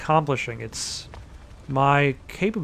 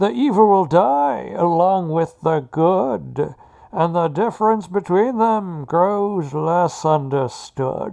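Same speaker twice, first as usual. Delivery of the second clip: put-on menacing villain accent; 3 semitones higher, 3 dB louder than usual. Reading a poem aloud in an attempted Bane accent. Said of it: "my attempt at a Bane accent".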